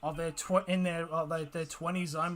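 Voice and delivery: choking on a swallowed bug; struggling after swallowing a bug; just swallowed a bug. Real, not acted. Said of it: "swallowed a bug now".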